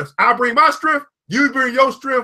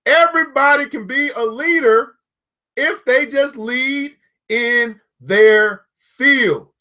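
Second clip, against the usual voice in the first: slow dictation emphasis; slower than usual. Shown as a demonstration. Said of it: "Everybody write that down".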